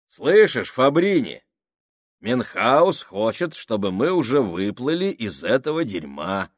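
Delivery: громкая издевка с высоким голосом; поддень их обоих, громко и с насмешкой; насмешливо. Acted. Сакс насмехается над Минхаусом. (громко, насмешливо)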